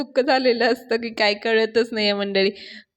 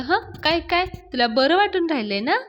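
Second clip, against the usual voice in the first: higher, mocking needle; teasing taunt; 6 semitones higher than usual. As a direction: poke fun at his pain. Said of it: "पाण्या त्याची मज्जा घेत असतो".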